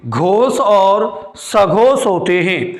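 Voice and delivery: P=A; slow stressed repeat. Shown as a demonstration. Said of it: "घोष और सघोष हो जाते हैं।".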